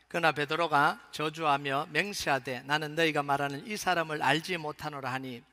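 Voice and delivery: steady, projected Bible reading; measured recitation in a firm voice; scripture reading. Acted. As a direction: lead a congregation through the verses aloud. Reads the scripture passage.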